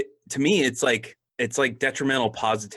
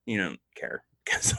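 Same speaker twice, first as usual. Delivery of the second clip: laughing whisper; 5 semitones lower, 4 dB quieter than usual. Real, not acted. Teasing co-host mid-laugh.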